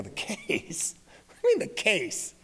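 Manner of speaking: small, hushed echo of the question; soft, wary backpedal; suddenly deflated. Retold or imitated. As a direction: drop the bluster and go quiet, caught off guard. Acted dad suddenly losing his bluster.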